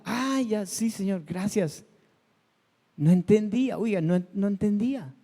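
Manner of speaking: lightly acted "aha" moment, rising at first; mock sudden realization. Believer thanks the Lord on finally understanding, acted dawning realization. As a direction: act out finally getting it.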